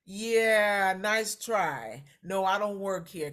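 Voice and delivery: loud teasing hang-up; mock brush-off. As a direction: tease her loudly and hang up. Retold phone reply to daughter.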